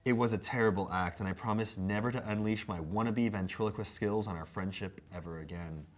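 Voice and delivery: mock-earnest apology read; measured comic recitation; letter read aloud. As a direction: read a scripted apology with playful theatre.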